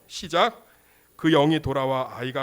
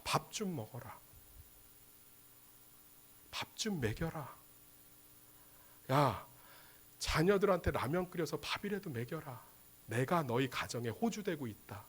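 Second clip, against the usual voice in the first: soft, unhurried caring instruction; hushed parental kindness; warm, tender; 7 dB quieter than usual. Acted. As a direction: coax gently in a lowered volume. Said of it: "따뜻하게 얘기하십니다".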